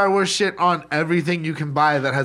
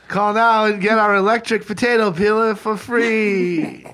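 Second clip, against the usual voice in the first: mock ad pitch, a bit higher; home shopping host; 4 semitones higher than usual. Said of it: "back from our sponsor".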